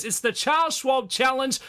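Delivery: hammed-up cowboy hype; fake cowboy accent. Hyping the Texas golf stop.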